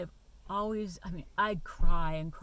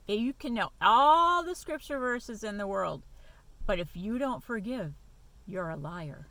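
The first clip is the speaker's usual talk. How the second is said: mock her words back, raised voice; louder mocking repeat; 2 semitones higher, 7 dB louder than usual. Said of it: "I forgive".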